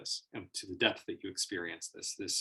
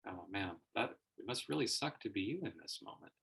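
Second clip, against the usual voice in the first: compassionate. Shown as a demonstration. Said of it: "hopefully you can feel it".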